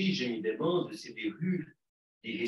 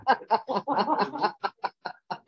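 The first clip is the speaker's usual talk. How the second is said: loud high laugh breaking out mid-story; burst of laughter; 12 semitones higher, 8 dB louder than usual. Real, not acted.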